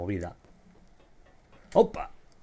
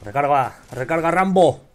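loud, pressing call to reload; urgent shout; 2 semitones higher, 6 dB louder than usual. Real, not acted. Gamer urging his teammate to reload, urgent shout. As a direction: yell it at your teammate.

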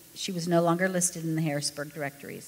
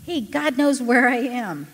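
slow, high, louder, overjoyed; giddy delight; 7 semitones higher, 7 dB louder, slower than usual. Acted. Ken telling his wife the news, giddy. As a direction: announce it with wonder. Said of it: "giddy with delight".

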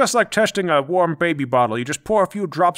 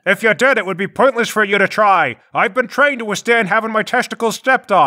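defiant boast; 5 semitones higher, 4 dB louder than usual. Acted. Prisoner boasts defiantly to interrogator.

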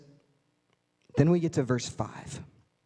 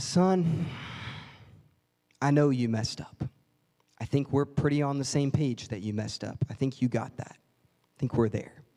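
father gently telling son the debt is paid; tender father; 3 semitones lower than usual. Retold or imitated. Dad voiced, tender and slow.

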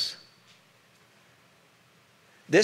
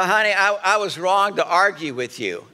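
bad apology; 4 semitones higher, 4 dB louder than usual. Shown as a demonstration. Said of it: "you can't say".

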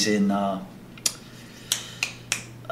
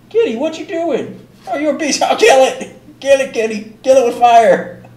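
high squeaky cheering, louder at the end; playful pet talk; 6 dB louder than usual. Real, not acted. Playfully egging on the cat.

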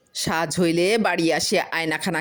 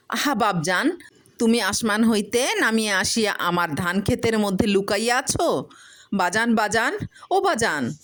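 fond calling to father; 6 semitones higher than usual. Acted. Farmer talks to father in mirror.

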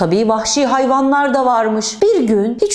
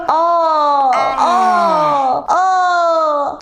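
drawn-out mock moans of pain; imitated cry of pain; 3 semitones higher, much slower than usual.

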